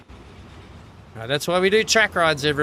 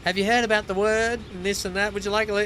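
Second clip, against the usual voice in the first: mocking canvasser; 6 semitones higher, faster than usual. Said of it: "stopping me again to say".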